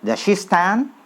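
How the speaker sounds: "Does she stand" blended as "da shi stan"; quick run-together reading; fast connected speech demo; fast linked reading. Shown as a demonstration. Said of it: "pakai S Y ya".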